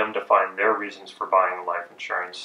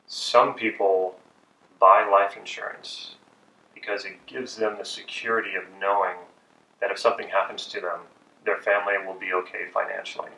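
slow soothing sales pitch; 3 dB quieter than usual. Shown as a demonstration. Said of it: "pacing statement would be something like".

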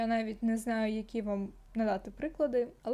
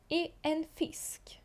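whisper; 4 semitones higher, 4 dB quieter, slower than usual. Shown as a demonstration. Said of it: "Ф".

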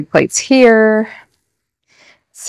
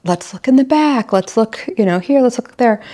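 higher, lilting let's-look voice; playful search; 5 semitones higher than usual. Retold or imitated. Mom leading the kids on a pretend search, lilting and higher. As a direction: play along with the hunt. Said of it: "I do this whole thing of".

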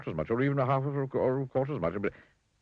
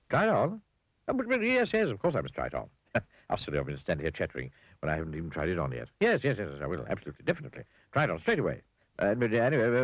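chatterbox character; faster than usual. Acted. Mr Chatterbox to Mr Bowler about the new hat, giddy gushing. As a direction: gush on and on, delighted with the hat.

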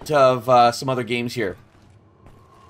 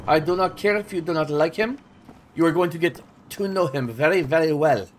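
put-on gangster voice; 3 dB quieter than usual. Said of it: "Why I talk like that".

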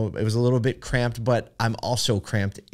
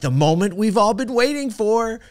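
high, bright intercom voice; cheery flight attendant; 11 semitones higher, 3 dB louder than usual. Retold or imitated. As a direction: play the peppy attendant building hype. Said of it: "She's like".

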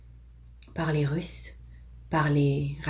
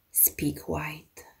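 quiet command; 8 dB quieter than usual. Acted. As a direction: say it softly, restrained. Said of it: "Un peu plus fort alors".

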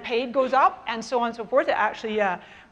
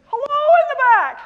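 calling out; 8 dB louder than usual. Real, not acted. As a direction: hail the back of a big room. Calling to back of large room.

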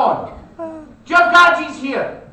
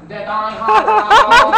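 mock Cantonese accent; 2 semitones higher, 3 dB louder, faster than usual. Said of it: "sounded like he was Cantonese".

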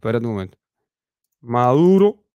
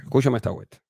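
serious; 5 semitones lower, 6 dB quieter, faster than usual. Real, not acted. Talking seriously to Díaz-Canel, in a lower, softer earnest voice.

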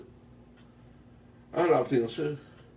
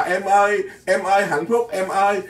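higher, louder mock-blissful calling; mock lover's call; 4 semitones higher, 4 dB louder than usual. Preacher imitating a happy lover to his listeners, mock blissful call.

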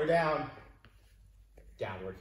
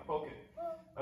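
"Poke it." said much higher, soft, with a rising end on "it"; playful high; 11 semitones higher, 7 dB quieter than usual. Shown as a demonstration. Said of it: "Poke the clouds".

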